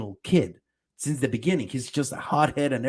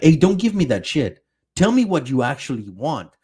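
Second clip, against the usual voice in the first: much louder imitation of an angry shove-back; angry retort; 6 dB louder than usual. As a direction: bark it like a friend fed up. Armin punches Eren, retold.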